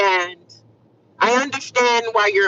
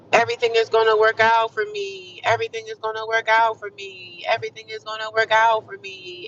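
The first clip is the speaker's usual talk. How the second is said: steady hopeful mantra; affirmation. Real, not acted. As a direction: say it like a mantra to yourself.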